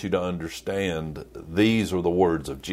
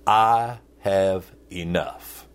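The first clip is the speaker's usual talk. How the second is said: slow phrase; slower than usual. Shown as a demonstration. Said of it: "The phrase is this".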